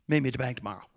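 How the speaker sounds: soft Kentucky drawl impression; Brother Morgan. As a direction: imitate a deep, quiet Kentucky mumble. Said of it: "a deep Kentucky drawl".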